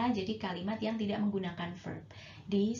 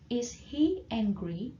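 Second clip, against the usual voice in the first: slow repeat; much slower than usual. Shown as a demonstration. Teacher repeats the question slowly for students to copy.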